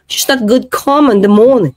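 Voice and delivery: imitated British vowels, falling at the end; mock British accent. Demonstrating the British phrase to viewers, mock British accent. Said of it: "Okay, ito ah".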